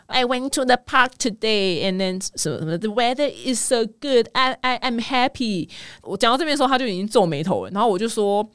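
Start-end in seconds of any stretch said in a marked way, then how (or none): 0.1-5.7 mock child post. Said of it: "用小孩口吻在po文".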